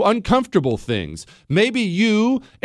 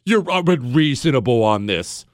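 scorn; 7 semitones lower than usual. Acted. Scornful retort to politicians.

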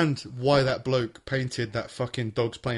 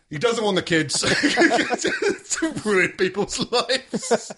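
pretend lawyer arguing; 8 semitones higher, 3 dB louder, slower than usual.

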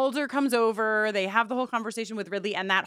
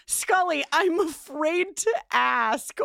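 high, slow, hushed dread; hammed-up dramatic Mulder; 8 semitones higher, 3 dB louder, slower than usual. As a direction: ham up the creepy question slowly. Mock dramatic Mulder line.

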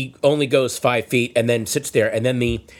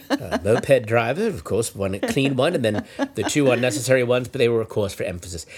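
low, very calm mock sports commentary; hushed, detached play-by-play of a street fight; golf announcer; 3 semitones lower than usual. Passenger narrating the punches in his head, calm golf announcer. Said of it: "narrated in my head like I'm a fucking golf announcer".

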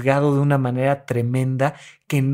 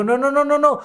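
urging therapist; 5 semitones higher than usual. Retold or imitated. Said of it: "y les digo".

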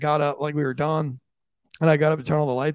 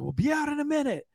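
mock casual call; 11 semitones higher, 4 dB quieter than usual. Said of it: "I was like".

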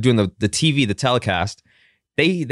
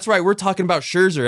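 mock commercial voice; 6 semitones higher than usual. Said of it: "they run Dodger commercials".

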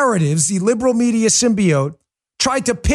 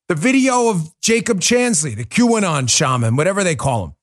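ordinary talk, nothing marked

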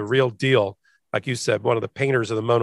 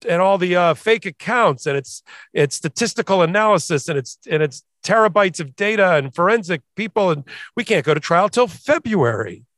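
higher-pitched, lightly Texan lawyer's plea; Texas accent; 5 semitones higher than usual. Acted. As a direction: argue to the judge with a touch of Texas. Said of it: "I'm using a Texas accent".

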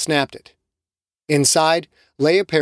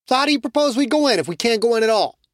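higher, teasing voice; mocking Che; 9 semitones higher, faster than usual. Che teasing Jake, higher mocking voice. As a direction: rib the hunter.

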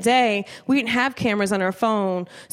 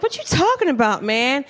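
disbelieving. Retold or imitated. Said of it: "I was like".

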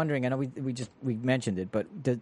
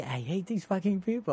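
mock bitter homeowner; 6 semitones higher than usual. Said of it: "even today".

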